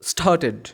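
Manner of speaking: "started" with the e sounded; ED as full syllable. Shown as a demonstration. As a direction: say "started" as two syllables, star-ted. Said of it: "এর পরের শব্দটার সঠিক উচ্চারণ".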